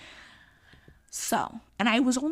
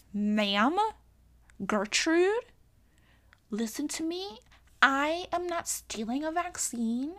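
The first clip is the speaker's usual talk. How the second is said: sassy telling-off; 4 semitones higher than usual. Pretend. Imagined retort to a stranger.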